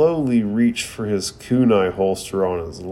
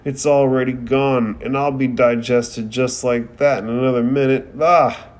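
panicked exclaim; 3 semitones higher than usual. Retold or imitated. Naruto sees his rice ball dissolve, a hammed-up panicked cry. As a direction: act out Naruto's panic as he slides into the snake. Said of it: "gasps and exclaims".

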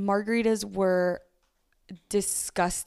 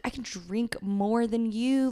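whisper; 3 semitones higher, slower than usual. Retold or imitated. Drunk boast retold as whisper.

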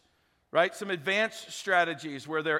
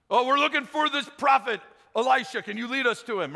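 lost soldiers; 5 semitones higher, 4 dB louder than usual. Retold or imitated. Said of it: "blind soldiers asking the way".

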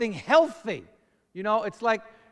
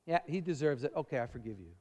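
grudging forgiveness; 6 semitones lower, 6 dB quieter, faster than usual. Retold or imitated. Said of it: "look at the other person and say".

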